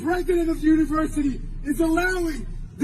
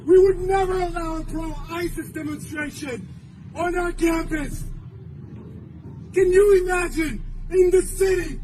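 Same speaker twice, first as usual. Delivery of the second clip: forceful, emphatic public address; urgent protest oratory; impassioned rally speech. Real, not acted. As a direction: hammer out each phrase to the crowd, with long pauses.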